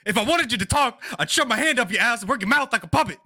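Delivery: high, loud mocking puppet voice. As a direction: voice the corpse like a ventriloquist dummy. Puppeting the gnome's corpse.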